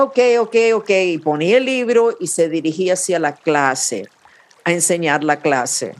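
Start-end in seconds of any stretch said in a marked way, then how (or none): 0.0-0.9 distracted teacher. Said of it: "después de un ratico decía".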